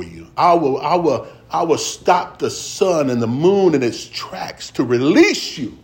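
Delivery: measured scripture reading that swells into full preaching. Acted. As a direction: preach it to the congregation, rising on the promises.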